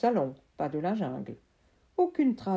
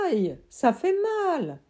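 mild pained moan; 8 semitones higher, 5 dB louder than usual. Acted. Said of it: "C'est l'arbre qui a gémi".

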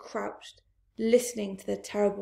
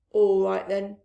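taking charge; 6 dB louder than usual. Acted. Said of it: "taking charge".

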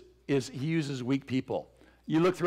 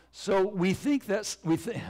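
voice failing; 3 semitones higher than usual. Real, not acted. Preacher amused by own failing voice, voice cracking. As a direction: voice catching, breaking into a laugh. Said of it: "my voice is hysterical".

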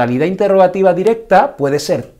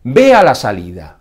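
command; 6 dB louder than usual. Shown as a demonstration. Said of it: "también se conocen estas oraciones como imperativas".

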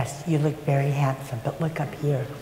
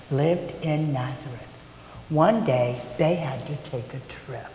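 storybook narration. A narrator's reading. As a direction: tell it gently, drawing them in. Narrates nativity story to children.

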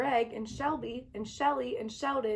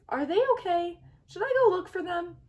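nervous; 6 semitones higher, 4 dB louder than usual. Acted. Shell panics, friends missing.

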